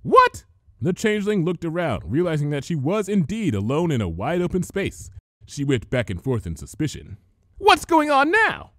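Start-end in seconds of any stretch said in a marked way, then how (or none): 0.0-0.4 shrill high startled cry, louder. A narrator's reading. Changeling startled to find herself alone. 7.6-8.7 high, slow suspicious villain voice; wary changeling looking around. A narrator's reading. Changeling alone in the open, slow and suspicious.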